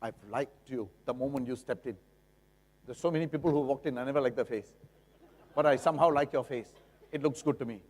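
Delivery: butter up the buyer; flattering seller. Retold or imitated. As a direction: seller sweet-talking a buyer, lightly voiced. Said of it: "Must the seller come to you and say".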